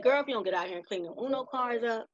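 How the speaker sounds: mock exasperated scolding; retold scolding. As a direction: order a child out, fast and forceful. Voicing her old scolding reaction.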